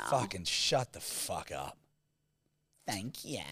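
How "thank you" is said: "thank you" drawn soft and quiet; rich American thank you. Shown as a demonstration. Mocking how rich Americans say thank you, softer and quieter. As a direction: breathe "thank you" softly, posh American. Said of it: "they're like".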